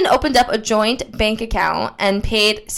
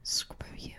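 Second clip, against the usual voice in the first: whisper; 2 semitones lower, 9 dB quieter than usual. Acted. Mock hurt whisper.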